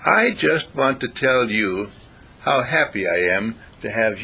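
slow, sweetly earnest little speech; sugary neighbourly. Retold or imitated. Visitor flattering the noisy neighbours, slow and sugary. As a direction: lay the kindness on thick, slowly.

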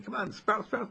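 a hint of a gentle rain voice calling the flowers up; coaxing rain. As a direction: urge the little sprouts up gently.

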